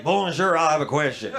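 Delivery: lightly imitated clumsy American; a hint of a blunt American; mock American tourist. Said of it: "be the American and be like".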